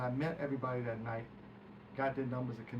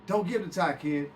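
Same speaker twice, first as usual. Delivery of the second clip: Fruity's warning; 4 semitones higher, 8 dB louder than usual. Retold or imitated. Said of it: "getting Fruity".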